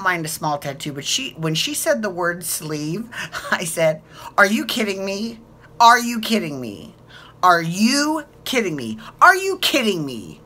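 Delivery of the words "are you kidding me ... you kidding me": a touch louder and higher, incredulous each time; mock outraged disbelief, over and over; hammed-up Ramona disbelief; Ramona impression. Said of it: "just like Ramona did".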